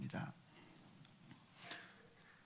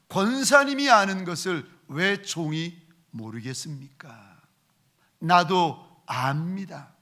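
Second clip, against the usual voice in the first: louder, pleading prayer to God; earnest prayer; 4 dB louder than usual. Acted. Pastor alone in the empty sanctuary praying, fervent. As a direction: pour out a fervent confession.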